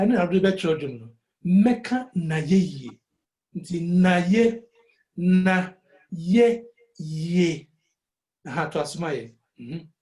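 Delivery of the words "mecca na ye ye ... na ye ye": slow, each syllable of "Mecca na ye ye" given its own beat. Shown as a demonstration. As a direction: tap out every syllable. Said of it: "mpɛ sɛ wonya syllable biara".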